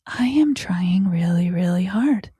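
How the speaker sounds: put-on whispered self-talk of a child; child's inner voice. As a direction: let the child murmur it to itself in a whisper. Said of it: "they process and feel".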